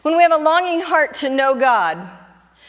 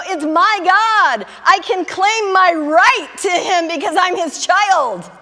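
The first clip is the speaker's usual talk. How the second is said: confident claim; 7 semitones higher, 4 dB louder, slower than usual. Retold or imitated. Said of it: "he's gonna go".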